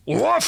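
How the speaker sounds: high yappy woof; playful mock bark; dog bark.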